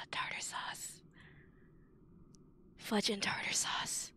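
whispered substitute swearing; under the breath. Real, not acted. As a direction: whisper it to yourself in frustration.

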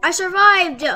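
loud, high happy cry; excited cheer. Real, not acted. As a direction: celebrate making it through. Cheers after round.

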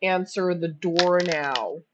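slow, stretched-out robot reading; text-to-speech impression. Streamer copying the cartoon's voice, text-to-speech impression. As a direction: lightly mimic a computer voice, word by word. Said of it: "perfect text-to-speech impression".

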